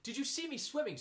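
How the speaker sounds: very high, excited squeak; squeaky little Roo. A narrator's reading. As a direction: squeal it like a proud small child. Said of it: "squeaked Roo excitedly".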